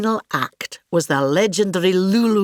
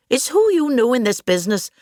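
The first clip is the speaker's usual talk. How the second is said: knowing quote; 5 semitones higher than usual. Retold or imitated. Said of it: "as Nanette Newman once said to me".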